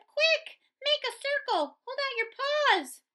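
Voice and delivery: high, urgent commands; yelling orders. A narrator's reading. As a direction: bark out orders to the crowd. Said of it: "yelled Pip".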